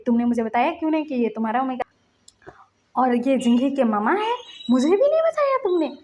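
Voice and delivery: aunt's outraged scolding; angry aunt. Retold or imitated. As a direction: scold him while twisting his ear. Aunt twisting his ear, scolding.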